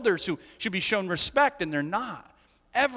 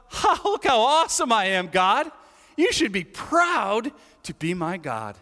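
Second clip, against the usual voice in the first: boastful Pharisee; 3 dB louder than usual. Retold or imitated. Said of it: "he's like, basically to sum it up".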